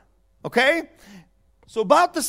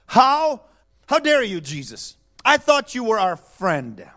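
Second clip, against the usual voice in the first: angry sisters. Retold or imitated. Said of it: "They're angry at Jesus".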